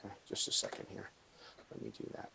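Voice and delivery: choppy audio dropouts; audio cutting out. Real, not acted. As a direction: sound cutting in and out. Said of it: "if my audio keeps cutting out".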